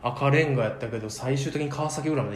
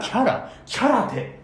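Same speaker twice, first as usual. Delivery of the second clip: puzzled question; 8 semitones higher, slower than usual. Retold or imitated. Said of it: "ってね".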